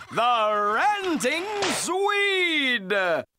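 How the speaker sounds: slow, drawn-out game-show shout of the name; bellowed announcement. Acted. The announcer brings back the show's favorite with a slow, drawn-out ringmaster shout. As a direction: sell the name like a big-top ringmaster.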